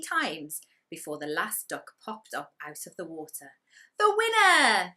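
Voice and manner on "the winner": high, loud cheer across the lake; shout. Acted. Gumboot cheering the last duck across the lake, loud shout. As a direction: call it out to the duck far away. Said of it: "shouted Gumboot across the lake".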